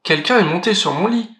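lightly voiced middle bear. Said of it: "de sa voix moyenne".

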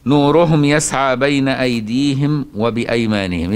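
slow, measured chanting of the verse; Quranic recitation. Acted. Sheikh reciting the verse to his students, slow chant. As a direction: recite the verse in tajweed style, unhurried.

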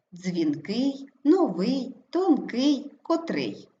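дзвінКИЙ, ноВИЙ, тонКИЙ, котРИЙ, stressed at the end; stress on second syllable. Shown as a demonstration. Teacher listing example adjectives, stress on second syllable. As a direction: hit the final syllable of each adjective. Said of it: "наголос падає на другий склад".

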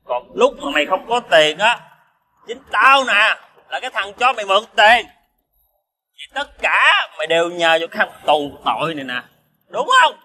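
put-on drunken, aggrieved reproach. Drunk friend insulted as a jailbird, bitterly reproachful. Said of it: "mày xỉn quá rồi".

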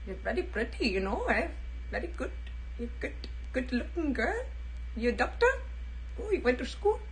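soft, lightly voiced Indian man; Indian accent. Lightly voiced Indian guy complimenting a woman, mild accent. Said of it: "A guy from India?".

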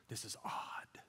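hushed, whispered aside; uneasy aside. Acted. Congregation uneasy at the preacher's silence, whispered aside.

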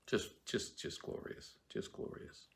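whispered admiration of the phrase; awed whisper. Real, not acted. Reader marveling at the verse in a whisper. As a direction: breathe it out in wonder. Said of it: "a wonderful phrase in there".

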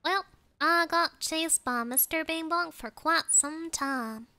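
playful Southern twang; Southern country talk, played up; Southern accent. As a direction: put on a folksy Southern accent. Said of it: "I didn't used to stop doing the accent".

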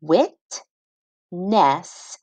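"Witness" stretched out slowly, syllables joined; teacher blending "Witness" slowly; slow blended word. Shown as a demonstration. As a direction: draw out "Witness" as you blend it.

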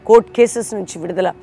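loud pleading prayer rising in force; loud fervent prayer of deliverance. Acted. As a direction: cry out for deliverance over the listeners. Leads fervent closing prayer.

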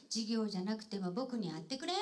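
line with Nagoya dialect くれん ending on a rise. Shown as a demonstration. MC models the Nagoya dialect line for the actor. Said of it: "皆さんが教えてくださったので".

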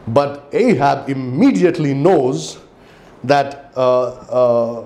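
ordinary delivery

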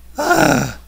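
long high-pitched groan of defeat; high exasperated sigh. Real, not acted. Player after losing the fight, high defeated sigh. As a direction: let out a loud defeated sigh.

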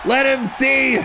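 triumphant shout. Acted. Boasting father mid-fight.

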